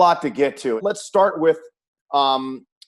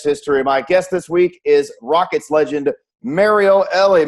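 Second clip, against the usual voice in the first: broadcast intro; 4 dB louder than usual. Acted. Host introduces the guest.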